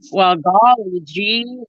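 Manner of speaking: slow, drawn-out Minnesota accent; Minnesotan accent. Shown as a demonstration. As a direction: stretch it like a northern Minnesotan. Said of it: "I'm from northern Minnesota".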